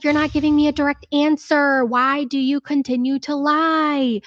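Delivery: a hint of a demanding mother; imitating angry Molly. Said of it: "So Molly's like".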